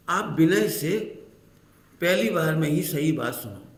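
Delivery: brisk, run-together reading; said quickly. Shown as a demonstration. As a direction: rattle it off without pausing. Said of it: "वो जल्दी कह गए".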